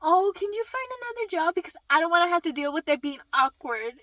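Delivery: high-pitched, loud mock plea; mocking mom imitation. Mom asking daughter to switch jobs, mocking imitation. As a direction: mimic mom's request with scorn. Mom's text voiced mockingly.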